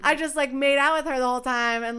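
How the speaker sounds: talking through a laugh. Real, not acted. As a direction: laugh while you tell it.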